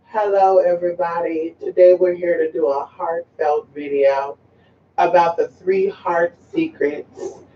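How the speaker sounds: even, mildly droning video intro; mock boring presenter. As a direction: imitate a dull slideshow host. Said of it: "video consists of boring-ass slides".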